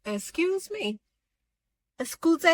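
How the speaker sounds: playing the affronted housewife; incredulous excuse me. Angela taken aback by her castmate, high indignant excuse me. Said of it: "And so Angela is like".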